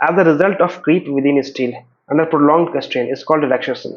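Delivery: very slow, deliberate definition read; slow dictation reading. Acted. Teacher dictating a definition to students, slow and measured. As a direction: read it out word by word for notes. Reads definition slowly from slide.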